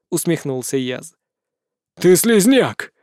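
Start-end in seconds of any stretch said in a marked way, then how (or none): 2.0-2.9 blurted. Acted. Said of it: "выпалила сущность".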